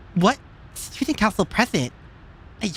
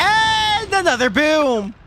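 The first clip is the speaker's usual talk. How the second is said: excited shout; 9 semitones higher, 3 dB louder, much slower than usual. Real, not acted. Reacting to an explosion in game.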